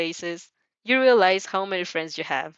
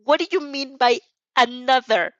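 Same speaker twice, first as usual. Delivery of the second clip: shocked, higher and louder cry; shocked scream; 5 semitones higher, 5 dB louder than usual. A narrator's reading. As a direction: blurt it out in shock. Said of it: "Mina's shocked scream of".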